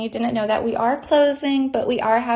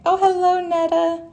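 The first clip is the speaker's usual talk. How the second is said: high, louder happy greeting; excited hello; 8 semitones higher, 4 dB louder than usual. Real, not acted. Host greets a viewer joining the live stream, excited.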